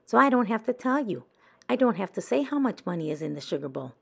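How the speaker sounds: put-on quick, smug little girl; teasing Frances. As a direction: rattle it off with a smug tease.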